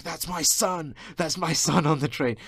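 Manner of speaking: high, loud screamed plea; retold father screaming at staff; frantic screaming. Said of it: "pointing and screaming".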